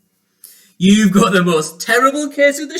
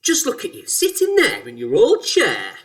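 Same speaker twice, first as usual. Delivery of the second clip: loud, swooping taunt; crying out; 8 dB louder than usual. A narrator's reading. Mister Twit points out his wife's chair, crying out loudly. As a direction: cry it out to alarm her. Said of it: "he cried".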